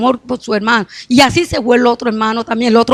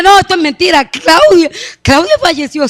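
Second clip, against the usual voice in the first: higher-pitched cry of disbelief; retold shocked denial; 4 semitones higher than usual. Mother is told that Claudia died, retold shocked denial. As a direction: relive refusing to believe the news. Refusing news of a death.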